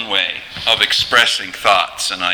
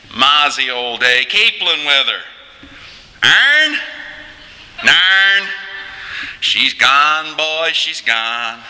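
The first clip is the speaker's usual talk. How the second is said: Newfoundland accent; 4 semitones higher than usual. Shown as a demonstration. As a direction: play two old Newfoundlanders chatting. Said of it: "Conversation between two Newfoundlanders".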